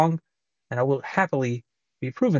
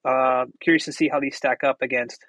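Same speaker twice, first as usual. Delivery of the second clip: tinny AirPods mic; thin bluetooth earbud microphone; bluetooth headset mic. Real, not acted. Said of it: "test of the microphone on the AirPods second generation".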